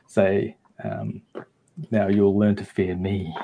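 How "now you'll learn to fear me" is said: slow, lightly creepy threat; freaky voice. Pretend. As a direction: cast a fear spell with understated, slow menace. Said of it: "in a freaky voice".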